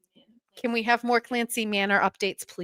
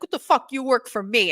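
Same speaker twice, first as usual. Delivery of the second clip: higher, louder mock outburst; retold yelling; 4 semitones higher, 3 dB louder than usual. Retelling Dave yelling at Kirk, mock angry. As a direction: imitate an angry boss mid-argument. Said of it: "yelling at each other".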